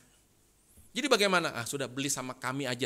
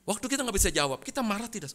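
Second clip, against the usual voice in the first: pressing repeat; 7 semitones higher, faster than usual. Shown as a demonstration. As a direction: push the question home to the congregation. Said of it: "repeats question, pressing harder".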